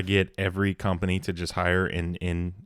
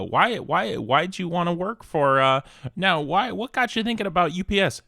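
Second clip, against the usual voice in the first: mock interviewer barber; 8 semitones higher, 3 dB louder than usual. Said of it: "it's just like".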